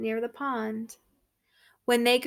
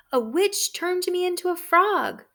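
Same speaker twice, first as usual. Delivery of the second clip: high, loud revelation; excited prince; 8 semitones higher, 7 dB louder than usual. Acted. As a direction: announce the curse dramatically. Prince reveals curse.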